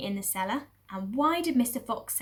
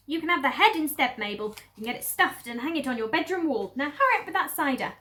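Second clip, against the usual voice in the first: a bit higher, louder impatient lady; bossy mistress; 4 semitones higher, 5 dB louder than usual. Acted. Lady upstairs orders the cellar woman to hurry. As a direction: hurry her along. Mrs Bean voice.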